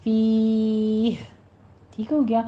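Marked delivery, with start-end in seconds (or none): 0.0-1.1 فی ending with a breathy ہ; فی with final ہ; stopping form. Shown as a demonstration. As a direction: say فی with a ہ sound at the end. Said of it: "آخر پہ ہا کی ساؤنڈ لے کر آنی ہے۔".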